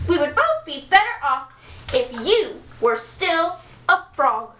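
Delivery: high, shrill complaining princess; princess throwing a fit. Acted. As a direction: rant like a spoiled princess. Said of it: "threw a perfectly awful fit".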